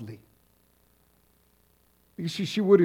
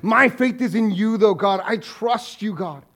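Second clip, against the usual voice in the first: retold declaration of faith; 7 semitones higher, 5 dB louder than usual. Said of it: "she would say something like".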